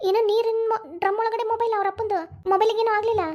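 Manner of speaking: shocked disbelief. Acted. Hears phones fell in water.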